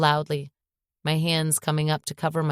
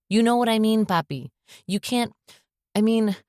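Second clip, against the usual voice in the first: growled; 7 semitones higher than usual. Acted. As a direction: snap it out in frustration. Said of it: "I growled".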